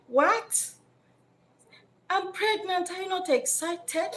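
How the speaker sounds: mock-incredulous question; surprised girlfriend. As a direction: ask why he isn't thrilled. Woman surprised by his reaction.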